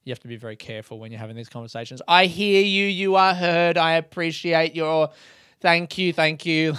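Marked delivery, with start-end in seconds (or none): 2.1-6.7 raised, sing-out show of gratitude; hammed-up appreciative voice; mock validating. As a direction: lay on exaggerated understanding. Parodies over-careful validating reply.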